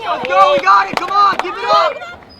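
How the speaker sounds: loud high encouragement; cheering. Real, not acted. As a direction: drive them on with a shout. Instructor cheering on line.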